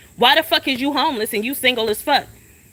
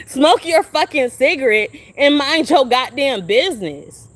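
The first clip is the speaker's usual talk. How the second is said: laughing through words. Real, not acted. Rant breaking into laughter.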